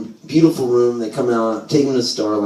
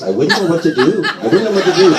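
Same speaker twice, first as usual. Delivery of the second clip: Jewish mother; 3 semitones higher than usual. Retold or imitated. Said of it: "mom become a Jewish mother".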